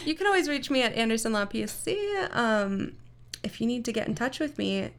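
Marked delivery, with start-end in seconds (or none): 0.1-2.2 amused, half-laughing retake; laughing while repeating. Real, not acted. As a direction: say it through a giggle. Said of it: "said again laughing".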